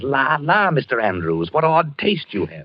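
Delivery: mock sneer of a fop; sneering dandy. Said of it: "his lip curls up and he says".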